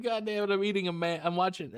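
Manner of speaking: high exasperated groan; exasperated outburst. Retold or imitated. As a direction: throw up your hands at it. Exaggerated reaction while watching.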